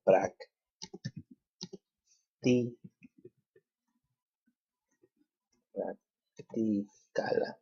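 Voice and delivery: prac, ti, practicala broken into slow syllables. Shown as a demonstration. Teacher breaking practicala into syllables. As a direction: sound out practicala slowly, syllable by syllable. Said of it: "third to the last syllable".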